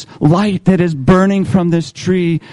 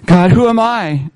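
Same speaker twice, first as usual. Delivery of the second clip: Moses protesting; 5 semitones higher than usual. Acted. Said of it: "Your first point is this".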